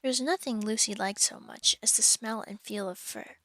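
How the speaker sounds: measured, clear audiobook reading; steady storybook narrator; story narration. A narrator's reading. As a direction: read the story aloud to listeners. Resumes reading the novel.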